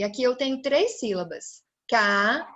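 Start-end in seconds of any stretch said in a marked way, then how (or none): 1.9-2.5 CARROÇA in three isolated beats, car-ro-ça; split into syllables. Shown as a demonstration. Teacher counting three sounds for children, syllable by syllable. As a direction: leave long gaps inside carroça. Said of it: "Três sílabas, eu emiti três fonemas".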